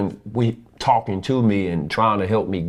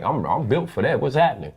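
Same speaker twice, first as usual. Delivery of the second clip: tough challenge; 5 semitones higher than usual. Retold or imitated. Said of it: "That's what I was like".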